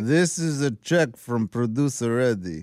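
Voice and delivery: slow, drawn-out imitation of wife. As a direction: mimic his wife, slowly. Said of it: "Your wife talks like that?".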